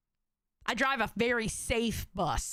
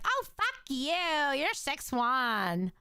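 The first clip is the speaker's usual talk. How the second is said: mock Valley Girl. Streamer quoting the caller's height envy, mock Valley Girl. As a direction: mimic a girly, envious caller. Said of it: "He sounds like a Valley Girl".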